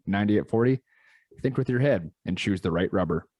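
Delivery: steady, upbeat read of a sponsor spot. Acted. Host reads the Rubber Co sponsor spot to listeners, ad read. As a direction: sell the product to the listeners, clear and bright.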